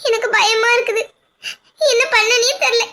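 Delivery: crying through the words; wife weeping to her husband about the gossip; tearful. Acted. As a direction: sob out her fear.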